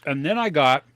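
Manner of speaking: talking through a mouthful of candy; mouth full. Real, not acted. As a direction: say it round a bite of chocolate. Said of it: "sorry for talking with my mouth full".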